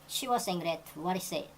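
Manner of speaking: very slow, careful textbook read; slow example reading. Shown as a demonstration. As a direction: lay out every word slowly for learners. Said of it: "teacher reads example sentence". (천천히 읽는 예문)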